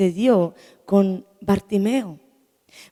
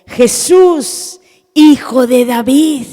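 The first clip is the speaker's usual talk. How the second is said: loud, raised cry for help; 4 semitones higher, 10 dB louder, much slower than usual. Retold or imitated. Preacher voices Bartimeo calling to Jesus, crying out. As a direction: call out hard, stretching the last words. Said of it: "cuando comenzó a clamar a él".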